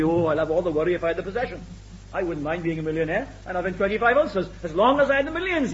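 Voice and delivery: quick, offhand imitation of a flippant remark. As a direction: toss it off lightly, mimicking the flippant. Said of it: "some people say rather flippantly".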